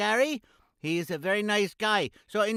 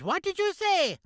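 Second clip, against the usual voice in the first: indignant; 9 semitones higher than usual. Acted. Host annoyed at sidekick.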